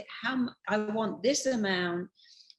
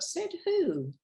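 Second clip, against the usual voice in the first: incredulous challenge; 9 semitones higher than usual. Real, not acted. Challenging a common saying.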